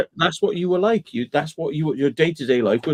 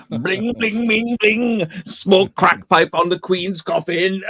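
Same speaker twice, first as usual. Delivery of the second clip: high chanted, slow sing-song voice; sing-song Bling Bling; 4 semitones higher, slower than usual. Retold or imitated. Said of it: "He's like".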